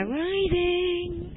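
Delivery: rising, said high and slow, sweeping up; teacher demonstrating rising pitch on rising; rising intonation. Shown as a demonstration. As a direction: glide the word rising way up, slowly. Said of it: "Rising intonation".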